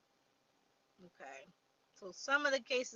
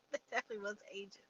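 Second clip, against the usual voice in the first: rushed, laughing repeat of the punchline; amused fast laughing retake; 3 dB quieter, much faster than usual. Real, not acted. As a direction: chuckle through it quickly.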